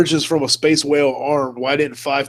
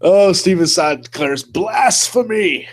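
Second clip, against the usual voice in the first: mock proclamation; 4 semitones higher than usual. Reading a viewer comment.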